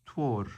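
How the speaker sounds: "Twor" begun with a t sound; D pronounced t. Shown as a demonstration. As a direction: model "Twor" with t, though spelled with D. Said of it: "spelled with a D".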